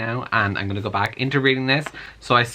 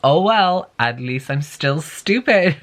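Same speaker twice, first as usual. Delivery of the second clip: mock self-aware shrug; 4 semitones higher, slower than usual. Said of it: "So she's just like".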